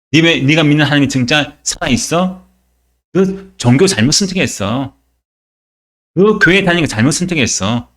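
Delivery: scoffer's reproach, lightly acted; mocking. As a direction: imitate someone belittling a believer's faith. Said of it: "나를 조롱하죠".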